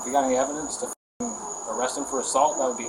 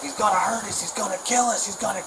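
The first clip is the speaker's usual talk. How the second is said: imitating a panicky man, pitched much higher; mock panic; 8 semitones higher than usual. Retelling the neighbor's fear of the dog, mock panicked and high. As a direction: mimic his frightened whine, high up.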